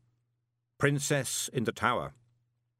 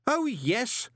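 scream; 14 semitones higher, 3 dB louder than usual. A narrator's reading. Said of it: "screamed Moist".

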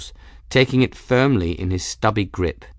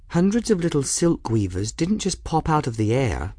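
higher-pitched, firm answer; firm retort; 6 semitones higher than usual. A narrator's reading. Bridget arguing with Folly about the silk weavers, firm. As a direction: answer back firmly. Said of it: "Bridget said back firmly".

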